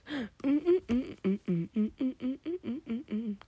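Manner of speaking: bouncy run of short sung notes; hummed theme tune. Acted. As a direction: hum a cartoon theme in quick separate notes. Hums a cartoon theme after naming it.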